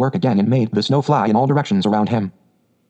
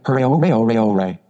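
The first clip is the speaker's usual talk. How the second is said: excited cry. A narrator's reading. Rat cheering his find, excited cry winding down. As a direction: run of hoorays, falling away. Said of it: "Suddenly the rat cried".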